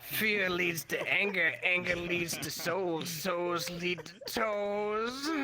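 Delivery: lightly voiced solemn Jedi wisdom. Yoda-style parody line, slowing.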